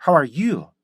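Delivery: "How are you?" slowed, weight on "you"; stress on YOU. Shown as a demonstration. Asking how you have been, stressed "you". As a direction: lean on "you", then fall. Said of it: "당신 어떻게 지내셨어요".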